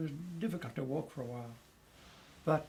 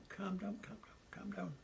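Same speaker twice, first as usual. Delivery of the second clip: high, soft, near-whispered pleading; hushed placating; 6 semitones higher, 9 dB quieter than usual. Retold or imitated. Narrator re-enacting himself pacifying the German officer, hushed placating. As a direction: re-enact soothing someone, fading into a whisper. Acting out soothing the angry officer.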